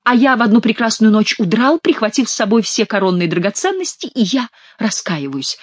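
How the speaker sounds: mildly hammed-up penitent recital; put-on contrite voice; fake king confessing. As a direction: confess grandly as the mock king. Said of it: "продолжал мнимый Генрих".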